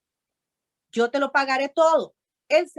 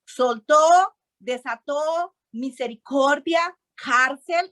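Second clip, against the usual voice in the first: emphatic keyword; 3 semitones higher, slower than usual. Real, not acted. Preacher stressing key word.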